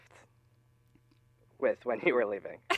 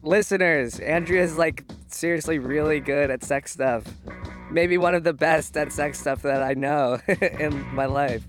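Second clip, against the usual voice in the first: anonymized, processed guest voice; disguised voice; 3 semitones higher, slower than usual. Real, not acted. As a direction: voice altered to hide who is speaking. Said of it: "whose voice is disguised".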